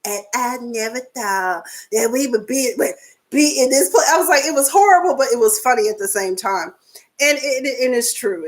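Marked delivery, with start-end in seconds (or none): 0.0-4.1 lightly voiced mocking letter reading; a hint of a mocking tearful read; mocking imitation. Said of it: "Kenya tried to imitate Dee Dee reading".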